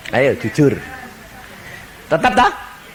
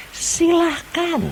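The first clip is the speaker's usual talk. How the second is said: drawn-out permission; much slower than usual. Acted. God grants the request.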